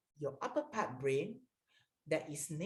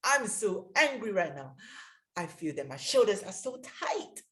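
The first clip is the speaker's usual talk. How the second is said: louder, naming the anger out loud; a demo of angry self-talk; 2 semitones higher, 6 dB louder than usual. Shown as a demonstration. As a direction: sound fed up, say it plainly and firmly. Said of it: "So you can say".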